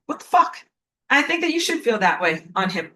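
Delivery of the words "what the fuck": high, incredulous sneer of disgust; disgusted sarcasm. Pretend. Confronting the son with disgust and rage. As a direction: throw it at him with rage and sarcasm. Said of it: "disgust, disappointment, rage, and sarcasm, where I'm like".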